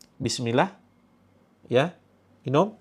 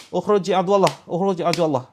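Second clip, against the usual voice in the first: stern command; 3 semitones higher, 3 dB louder, faster than usual. Shown as a demonstration.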